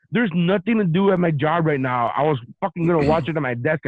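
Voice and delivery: mock-angry rant; so mad. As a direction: imitate an aggrieved partner protesting. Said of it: "She got so mad".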